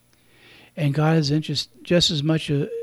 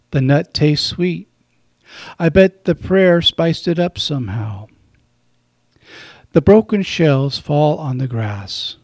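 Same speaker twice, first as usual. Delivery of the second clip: slower second reading, every line drawn out; slow poem reading; 5 dB louder than usual. Acted. Priest rereads the poem slowly while listeners close their eyes. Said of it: "Just listen to the soft words".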